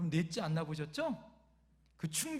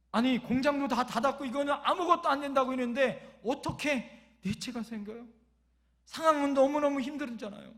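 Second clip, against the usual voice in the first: higher, louder retold protest; grumbling prayer; 4 semitones higher, 6 dB louder than usual. Father protesting to God about the pregnancy, indignant grumbling. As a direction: plead and complain in mock indignation. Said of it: "더 큰 넋두리처럼 기도했다".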